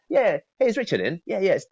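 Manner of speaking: high, breezy friendly hello; casual friendly opener. Shown as a demonstration. Coach demos opening a cold call casually.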